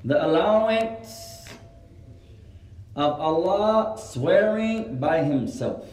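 slow, drawn-out dictation pace. Real, not acted. Teacher giving students a benefit to write, dictated slowly. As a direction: stretch the words out for note-takers.

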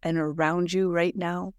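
a hint of an awestruck divine voice; voice of God. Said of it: "download from the big guy himself".

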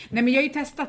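usual speaking voice

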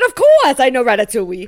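exaggerated French-accented retort; mock French accent. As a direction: imitate a Frenchman showing off. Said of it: "in an American accent".

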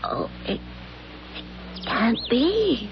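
hushed, slow disbelief; shocked whisper. Acted. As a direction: breathe it out in shock. Wife sees something shocking.

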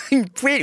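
"poêle" spoken as "pwel", played up for a laugh; jokey pronunciation. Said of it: "je le dis pas comme ça dans la vie".

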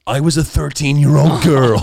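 loud, high narrator voice; imitating narrator voice. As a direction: copy the odd reader voice. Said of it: "this dude does this fucking voice".

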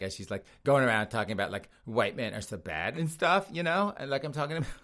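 a light Valley Girl mimic, fast and sing-song with like; mock a millennial Valley Girl, rushing through the likes. Host imitating how Mel probably sounds, mock Valley Girl. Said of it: "affected Valley Girl voices".

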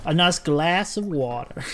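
put-on American accent. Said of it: "how an American would say it".

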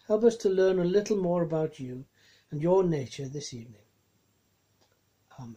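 gentle spoken prayer. Acted. Opening prayer.

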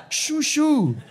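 high, laughing shoo at a bug; half-scared, half-laughing, shoo it away; nervous shooing. Real, not acted.

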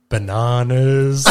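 put-on slow drawn-out shouted kid answer; mock kid shout. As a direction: belt out the one word slowly, like a proud kid. Kid's answer retold, shouted.

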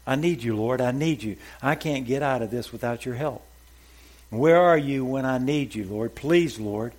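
loud pleading cry to the Lord. Acted. Man hanging from a cliff begs the Lord, loud plea. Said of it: "He cried out".

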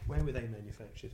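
hushed, low mock suspicion; mock-suspicious aside. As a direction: drop the voice as if the microphones might hear. Mock questioning the microphones.

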